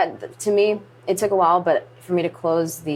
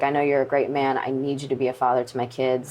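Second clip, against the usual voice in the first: understated, settling lower at the end; calm, retold; 3 semitones lower than usual. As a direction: relay a dying father's request calmly. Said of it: "he was the calm one in this".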